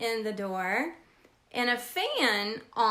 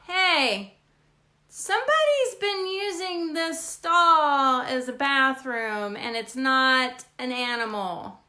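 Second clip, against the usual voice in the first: mild mock yell; slower than usual. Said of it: "yelled out".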